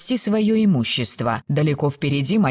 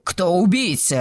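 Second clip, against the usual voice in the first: usual speaking voice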